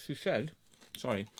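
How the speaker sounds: talking through a mouthful; words round a bite of food; mouth full. Real, not acted. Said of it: "shouldn't rant with your mouth full".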